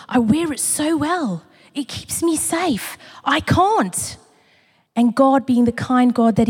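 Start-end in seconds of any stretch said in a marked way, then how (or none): 0.1-4.2 pleading. Retold or imitated. Retelling her pleading with God.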